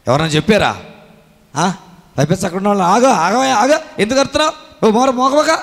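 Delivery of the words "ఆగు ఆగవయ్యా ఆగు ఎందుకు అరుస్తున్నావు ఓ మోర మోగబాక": mock scolding crowd. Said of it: "అన్నారు".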